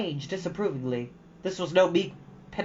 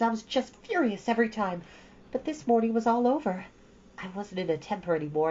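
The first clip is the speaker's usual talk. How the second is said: put-on higher girlish voice, earnest and ashamed; girl Anne; 6 semitones higher than usual. Anne confessing her anger to Matthew, higher girlish voice. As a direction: pour it all out to him, ashamed then willing. Anne's long speech.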